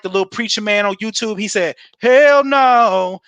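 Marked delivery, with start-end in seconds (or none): 2.0-3.2 a brash, loud "Hell no"; mock loud refusal. Prospect scoffing at the presenter, loud mock refusal. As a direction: blurt it out like a cocky prospect brushing off the pitch.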